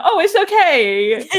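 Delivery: acted contentment. Artist deciding to end on a good note, acted relief. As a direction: stretch it out as a pleased verdict.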